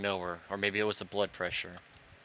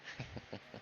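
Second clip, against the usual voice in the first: stifled breathy laugh; 3 semitones higher, 16 dB quieter than usual. Acted. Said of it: "Are you laughing?".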